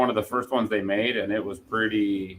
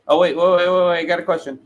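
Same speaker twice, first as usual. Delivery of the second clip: urgent call; 6 semitones higher, 7 dB louder, faster than usual. Real, not acted. Stopping stream end for question.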